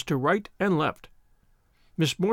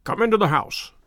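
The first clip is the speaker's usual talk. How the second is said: crisp, firm; 3 semitones higher than usual. Acted. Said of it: "in his crisp, firm way".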